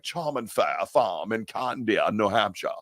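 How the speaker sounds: slow New Hampshire place-name accent; put-on regional accent. Shown as a demonstration. Host showing listeners the accent he slips into. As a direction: lean lightly into a local accent, drawn out. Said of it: "I go to that accent".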